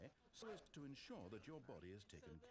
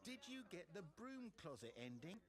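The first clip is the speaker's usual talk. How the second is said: mock excited player; 4 semitones higher than usual. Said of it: "you'll say".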